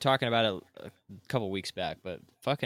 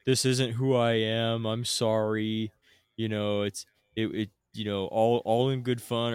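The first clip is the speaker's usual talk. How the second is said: mock apology; 5 dB louder than usual. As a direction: ham up a hollow sorry, dragging it out. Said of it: "And it's like".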